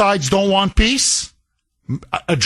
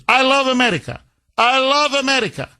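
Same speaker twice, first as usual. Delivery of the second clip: higher, fawning put-on accent; mocking Zelensky; 5 semitones higher, faster than usual. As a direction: gush it like a flatterer. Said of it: "All you say is".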